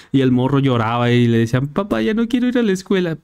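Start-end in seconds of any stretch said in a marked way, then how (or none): 1.7-3.2 voz mucho más aguda de niño quejica; suplícale a papá como niño; niño quejumbroso. Retold or imitated. Niño llorón le dice a su papá. (niño chillón hablándole a su papá)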